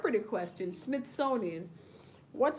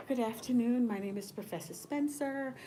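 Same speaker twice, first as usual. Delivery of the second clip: stiff professor; 4 dB quieter than usual. Pretend. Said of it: "Y'all would think, like, I'm sedated".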